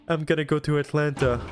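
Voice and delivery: small, slightly defeated mumble; a light hint of a deflated Junpei; little defeated voice. Junpei mistaking Atlantis for Atlanta, lightly defeated. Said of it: "in the most, like, little defeated voice".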